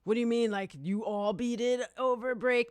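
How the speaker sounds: high, loud imitation of disbelieving listeners; incredulous questioning. Listeners questioning how they all beat it, mock-incredulous. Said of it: "a lot of people, they're like".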